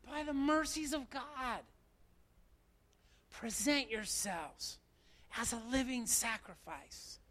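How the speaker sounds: Paul begging, fading to a hush; pleading Paul. Acted. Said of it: "here he's saying".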